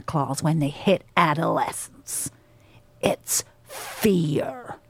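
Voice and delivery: slow monologue in a put-on American accent; British actor playing Blitzen with an American accent; measured, grave delivery, lightly American accent. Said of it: "I was putting on an American accent".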